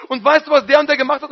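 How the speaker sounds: a hint of a child telling tales; eager tattling child. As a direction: tell on someone to Papa. Tattling continues.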